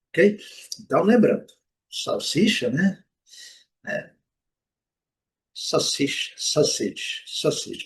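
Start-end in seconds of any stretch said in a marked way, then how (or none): 5.5-7.8 sausage stressed on SAU; first-syllable stress. Shown as a demonstration. Teacher repeats the word for learners, first-syllable stress. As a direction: hit the first syllable of sausage, short ending. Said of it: "Primeira sílaba, a sílaba tônica".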